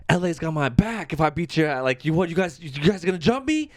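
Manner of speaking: mild imitation of belligerent yelling; retold drunk yelling. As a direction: act out a drunk picking a fight. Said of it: "Like, just yelling all this shit".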